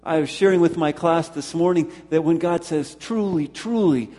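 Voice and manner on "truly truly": "Truly, truly" pitched higher, each word stressed; emphatic sincerity. Acted. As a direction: give both words of "Truly, truly" their own solemn weight. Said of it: "bringing with all sincerity, with utter truth".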